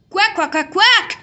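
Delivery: a duck's alarmed quacking. Acted. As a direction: quack like a frightened little duck. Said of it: "cried Ping".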